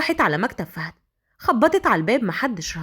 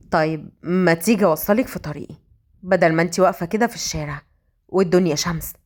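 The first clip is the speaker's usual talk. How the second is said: lowered man's voice, offering casually; stern male hero, casual; 5 semitones lower than usual. Acted. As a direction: drop the pitch, play the cool boss. (صوت راجل واطي وهادي)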